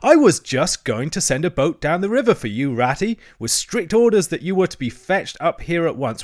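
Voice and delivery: high, eager storytelling voice; excited greeting. A narrator's reading. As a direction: gush on excitedly at your visitors. Toad excitedly greets friends.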